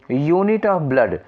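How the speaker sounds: very slow, every word drawn out; a teacher dictating unit of blood very slowly; very slow demo. Shown as a demonstration. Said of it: "यू लिखा है".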